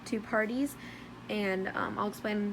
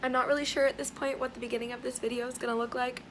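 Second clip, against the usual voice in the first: losing her voice, hoarse; hoarse, worn-out voice; 2 semitones higher than usual. Real, not acted. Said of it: "Sorry for my voice".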